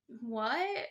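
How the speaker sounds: a bewildered what through a laugh. Retold or imitated. Him reacting to the angel of music, laughing. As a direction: laugh out the word. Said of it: "And he's like".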